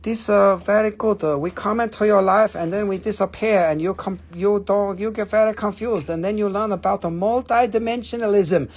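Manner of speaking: crystal character giving a lesson in broken English; lightly put-on accent as a teaching stone; playful accented Moldavite voice; talking Moldavite. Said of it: "the next Moldavite will be talking to you".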